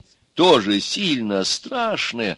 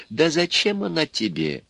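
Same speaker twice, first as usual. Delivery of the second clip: higher-pitched exclamation as Baba Yaga; exclaiming; 9 semitones higher, 3 dB quieter than usual. A narrator's reading. Baba Yaga waves away Ivan's paperwork worry, exclaiming. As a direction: brush it off with a high exclamation. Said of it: "воскликнула Баба Яга".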